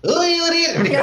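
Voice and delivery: high, cracking, squeaky greeting; cracked high voice. Real, not acted. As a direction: squeak out a cheerful hello. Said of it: "Voz de taquara rachada". (voz de taquara rachada)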